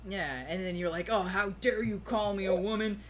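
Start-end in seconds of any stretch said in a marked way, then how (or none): 1.1-3.0 mildly indignant imitation; mock outrage. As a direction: play someone offended and ready to smash things. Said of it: "Start smashing things".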